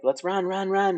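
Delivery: rally them to run; urgent urging. Acted. Elias to the others as they flee, urgent urging. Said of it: "Elias now is like".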